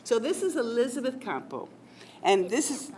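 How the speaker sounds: ordinary talk, nothing marked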